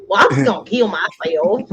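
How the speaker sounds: lightly mimicked country four-year-old; upset little boy, country accent; country little kid. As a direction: imitate a small boy's country accent. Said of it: "it, it's so country".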